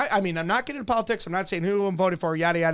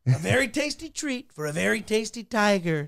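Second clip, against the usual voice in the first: Trump impression. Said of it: "You do Trump".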